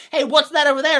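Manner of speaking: high, loud pointing-off call; mock alarm to draw their eyes; pilgrim distraction call. Pilgrim pranksters luring the mark away, high loud call. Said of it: "before we go".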